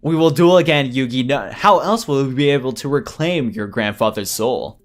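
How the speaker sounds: lightly voiced villain setting terms; theatrical villain. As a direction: demand a rematch, slowing at the end. Villain demands rematch.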